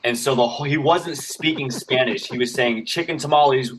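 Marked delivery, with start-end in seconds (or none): 2.9-3.7 higher street vendor chant; lightly voiced vendor hawking food; vendor calling out. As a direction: call it out like selling tamales in a parking lot.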